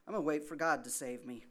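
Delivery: loud, fast and stubborn; stubborn refusal. Retold or imitated. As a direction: dig in and refuse him loudly. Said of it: "And the guy says".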